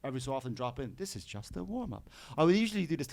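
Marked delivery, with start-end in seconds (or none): 1.0-2.1 put-on higher, soft, lightly effeminate English accent; a hint of a camp English voice, quiet. Busker dropping in his warm-up line, soft effeminate English accent. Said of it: "effeminate queer English voice".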